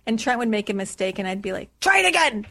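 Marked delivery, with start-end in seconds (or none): 1.8-2.5 barked high and loud like a drill sergeant; mock drill sergeant, much louder and higher. Mentor drilling Trent, mock drill sergeant bark. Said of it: "like drill sergeant".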